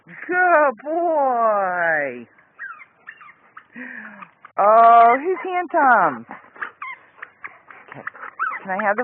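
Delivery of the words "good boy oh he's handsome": cooing at a dog. Real, not acted. Admiring dog, slow drawn.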